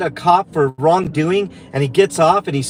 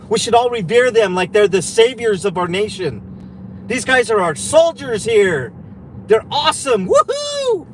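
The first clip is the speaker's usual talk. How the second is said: sarcastic praise. Pretend. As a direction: gush with fake reverence. Sarcastic praise of cops, then denies it.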